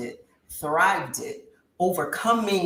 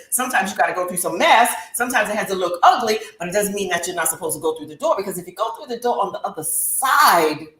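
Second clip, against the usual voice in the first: louder, fervent sermon voice; loud preaching; 6 dB louder than usual. Retold or imitated. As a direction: preach it with force. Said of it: "But God said".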